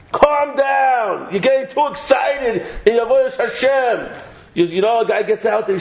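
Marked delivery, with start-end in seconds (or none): 0.1-4.2 mock scolding. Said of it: "he's like".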